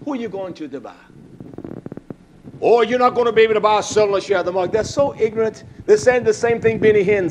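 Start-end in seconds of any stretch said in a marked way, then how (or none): 2.6-4.7 fast mocking imitation of a preacher; a touch of a fast mock preacher. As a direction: rattle it off like a scornful parody. Mocking ignorant preachers' claim.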